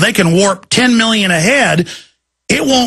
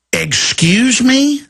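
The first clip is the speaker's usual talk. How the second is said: high, drawn-out incredulous question; CNN talking head; 5 semitones higher, much slower than usual. Retold or imitated. News anchor reacting to an official's claim, incredulous. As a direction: imitate a taken-aback TV anchor, pitched up. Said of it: "even the C N N talking head said".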